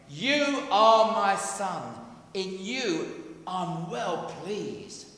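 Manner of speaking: slow, solemn divine pronouncement; voice of God. Acted. God speaking to his son at baptism, slow and solemn. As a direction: proclaim each word slowly, like heaven speaking. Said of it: "the voice comes out saying".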